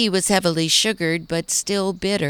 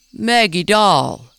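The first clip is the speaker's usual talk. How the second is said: louder, slower call across the garden; raised voice; 3 semitones higher, 7 dB louder, slower than usual. Acted. Mayor calls to wandering Maggie, voice raised louder. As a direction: call her back from across the yard. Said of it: "he raised his voice".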